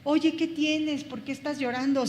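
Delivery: gently concerned, asking what's wrong; a friend asking someone why they are crying. Retold or imitated. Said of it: "Como cuando te acercas a alguien y le dices".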